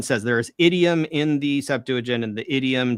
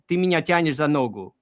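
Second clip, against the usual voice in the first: the idiom said in a foreign tongue, a touch puzzled; Russian phrase. Retold or imitated. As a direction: voice a bemused Slavic reader. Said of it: "like, in Russian".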